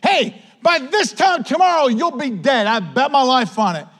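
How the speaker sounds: high-pitched acted death threat; threatening. Acted death threat against the prophet.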